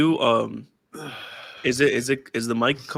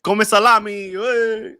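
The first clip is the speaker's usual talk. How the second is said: playful calling out; 9 semitones higher, 5 dB louder, much slower than usual. Real, not acted. Playful call to friend.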